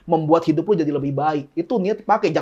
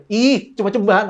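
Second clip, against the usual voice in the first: pouty Novi line. Shown as a demonstration. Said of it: "harus gitu ngomongnya".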